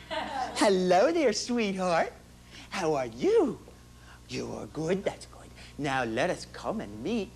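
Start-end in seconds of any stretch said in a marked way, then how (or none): 0.1-5.5 put-on slow, tender hello to a little girl; tender baby talk. Dad greeting his baby daughter, slow and tender. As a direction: coo over the baby gently.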